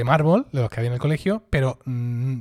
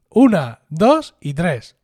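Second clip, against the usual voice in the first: counting off; 5 dB louder, much slower than usual. Retold or imitated. Counting to drop marble bench.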